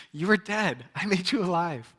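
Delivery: God answering the boaster, proclaiming; God speaking. Pretend. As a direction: declare it like God. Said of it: "He's like".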